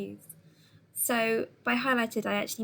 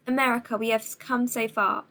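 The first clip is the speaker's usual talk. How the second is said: dramatic speech; 5 dB louder than usual. Shown as a demonstration. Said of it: "Pause for dramatic effect".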